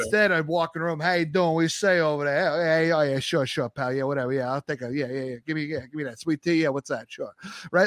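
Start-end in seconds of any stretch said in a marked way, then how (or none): 1.0-7.3 lightly voiced New York accent with attitude; a hint of a brash New York accent; mild New York accent, acting different from the Southerners; played-up New York accent. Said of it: "I would play up the accent, play up the attitude".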